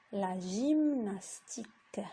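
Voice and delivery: whispered la gymnastique, slowed. Shown as a demonstration. Teacher whispers the word for the pupils to repeat. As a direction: breathe the word out with no voice. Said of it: "teacher repeats word".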